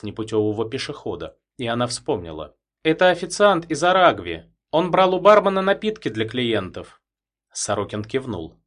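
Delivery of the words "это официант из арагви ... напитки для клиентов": woman's voice. A narrator's reading. Woman recalls.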